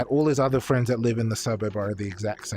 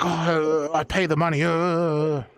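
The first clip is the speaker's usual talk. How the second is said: mocked colonist; 3 semitones higher, slower than usual. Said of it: "like, a legitimate colonist?".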